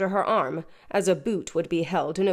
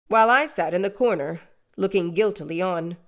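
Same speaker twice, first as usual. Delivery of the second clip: plain reading voice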